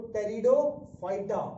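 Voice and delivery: "pteridophyta" with the P silent, starting on T. Shown as a demonstration. Teacher shows students how to read pteridophyta, P left silent. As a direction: say "pteridophyta" as teridophyta, no P sound. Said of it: "इसमें पी silent होता है".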